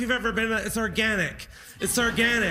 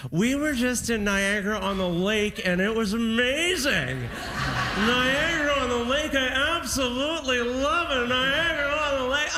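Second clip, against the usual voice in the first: gushing tourist. Shown as a demonstration. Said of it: "You say".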